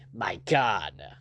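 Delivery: low, hushed gasp of dread; panicked cry. A narrator's reading. Bishop learning he may hang, low panicked exclamation. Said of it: "cried Bishop in a sudden increase of panic".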